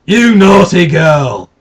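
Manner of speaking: a hint of Jerome Flynn scolding; lightly voiced Jerome Flynn. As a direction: scold her as Bron would. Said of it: "it's Jerome Flynn".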